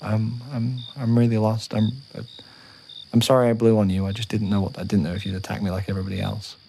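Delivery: a hint of a lost, timid little dragon, apologetic; scared young dragon. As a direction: play the lost young dragon, nervous and sorry.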